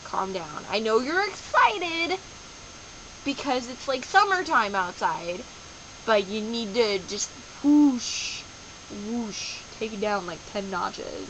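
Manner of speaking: slow, calming voice; soothing self-talk. Retold or imitated. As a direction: talk your body down gently. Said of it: "calmed myself down".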